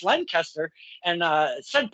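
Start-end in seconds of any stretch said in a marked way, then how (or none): 0.0-0.7 Lancaster as "LEN-kester"; Lancaster squeezed to "LEN-kester"; mistaken pronunciation. Shown as a demonstration. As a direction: say Lancaster with a short "len" and weak ending. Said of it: "I've been telling everybody it's".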